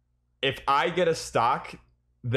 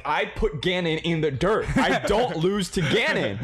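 mock indignant; 4 semitones higher than usual. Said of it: "and I'm like".

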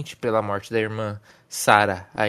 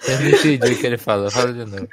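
laughing; 6 dB louder, faster than usual. Real, not acted. Still laughing.

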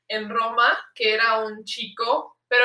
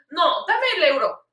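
slow, higher mock demand; demanding rose seller; 4 semitones higher, slower than usual. Seller demands his euro, slow mock demand. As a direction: imitate a seller insisting, word by word.

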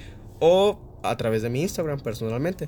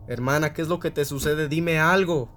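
brother shouting; 4 semitones higher, 4 dB louder than usual. Acted. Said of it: "gritaba él".

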